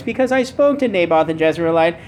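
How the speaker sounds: a hint of a whiny sulking king. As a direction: lightly whine it like a pouting king. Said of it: "imagine him saying in a whiny voice".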